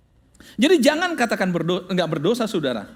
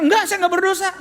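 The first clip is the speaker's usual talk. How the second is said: defiant churchgoer; 10 semitones higher, 4 dB louder, faster than usual. Retold or imitated. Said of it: "Saudara kata".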